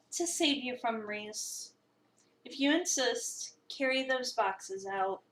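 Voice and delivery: slow, dry and unbothered, a lightly voiced chef; curt chef Mason. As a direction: lay out the chore slowly without looking up.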